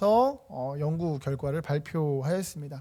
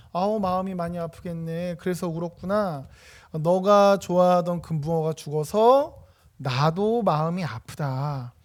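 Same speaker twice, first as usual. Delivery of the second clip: put-on slow, soothing comfort for a sad child; sympathetic. Coaching parent comforts child over dead goldfish, slow and tender. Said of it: "같이 공감을 합니다".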